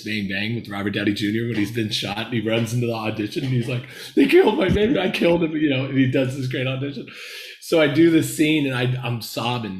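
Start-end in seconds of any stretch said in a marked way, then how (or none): 4.2-5.5 hammed-up movie outburst; acted-out anguish. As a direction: mock-desperate cry, high and loud. Acts out film audition scene.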